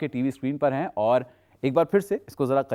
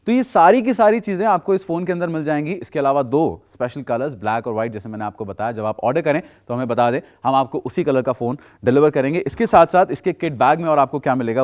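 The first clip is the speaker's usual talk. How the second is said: overeager teleshopping pitch; 7 dB louder than usual. Acted. Teleshopping host pushing the phone.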